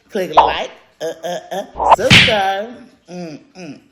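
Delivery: loud punchy subscribe call; hype call. Shown as a demonstration. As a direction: pump up the viewers. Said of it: "subscribe call to viewers".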